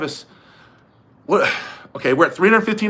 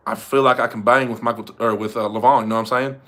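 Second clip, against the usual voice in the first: lightly put-on Southern accent; Michael Todd; 3 semitones lower than usual. Retrying the Michael Todd impression, tentative Southern accent. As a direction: have another tentative go at an Arkansas accent. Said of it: "Let me try a Michael Todd one".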